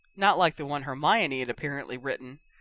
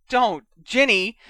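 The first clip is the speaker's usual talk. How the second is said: loud, higher, drawn-out plea; alarmed plea; 5 semitones higher, 8 dB louder, slower than usual. Acted. Ron begging his sister not to read, alarmed. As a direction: beg her to stop. Brother blanches, pleads with sister.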